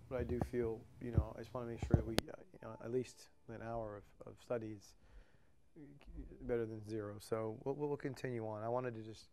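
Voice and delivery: heavy breathing between phrases; audible breathing. Real, not acted. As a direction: talk while short of breath. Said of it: "it said you are breathing so hard".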